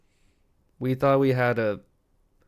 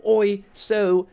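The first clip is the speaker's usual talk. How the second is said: slow, higher-pitched British actor impression; hammed-up British interview voice, drawn out; mock British accent; 6 semitones higher, slower than usual. Imitating actors in their interviews, exaggerated British accent. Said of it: "This guy was British the whole time?".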